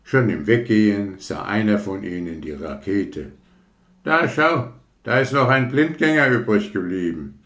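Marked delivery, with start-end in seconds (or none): 4.0-7.4 higher, fast casual remark; offhand worker. Acted. Worker spots the leftover rocket, fast offhand. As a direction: toss it off carelessly.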